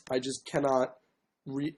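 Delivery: ordinary talk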